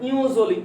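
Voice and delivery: "ইওজলি" with nasal-letter name "io" then "joli"; letter-by-letter reading. Shown as a demonstration. Teacher shows students the spelled-out reading, "ইওজলি" as io-joli. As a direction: read "ইওজলি" as io-joli, not onjoli. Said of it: "উচ্চারণটা হওয়া উচিত না এরকম".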